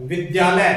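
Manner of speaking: विद्यालय with the half द said quick and light. Shown as a demonstration. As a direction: say विद्यालय, barely touching the द. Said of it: "उसको आप हल्का बोले".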